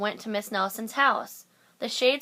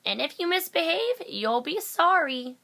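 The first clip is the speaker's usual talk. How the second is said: menacing threat; 8 semitones higher than usual. A narrator's reading. Miss Swamp threatening.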